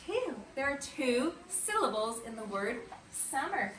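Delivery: normal talking voice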